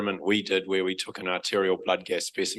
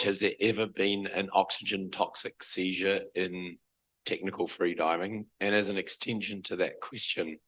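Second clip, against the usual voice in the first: croaky voice. Real, not acted. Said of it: "Excuse my croaky voice".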